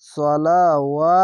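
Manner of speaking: সলা ওয়া drawn out very slowly; stretched recitation. Shown as a demonstration. Teacher drawing out the alif for students. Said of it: "খারজা বারে এক আলিফ টেনে পড়বেন".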